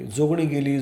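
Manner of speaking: a mild mock cry of alarm, called out; crowd's alarm cry. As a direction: call it out like a panicked crowd. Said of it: "सर्वत्र एकच ओरड घुमली". (घाबरलेल्या गर्दीची हलकी आरोळी)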